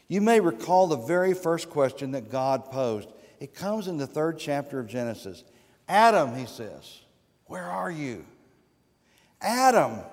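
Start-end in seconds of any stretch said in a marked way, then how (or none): 5.9-8.2 God calling out. Acted. God calling Adam in Genesis.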